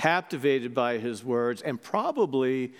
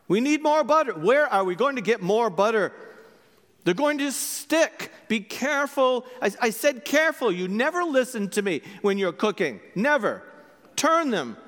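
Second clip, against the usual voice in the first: nagging husband; 7 semitones higher than usual. Acted. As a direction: pester her nonstop over every egg. Husband nagging wife while cooking.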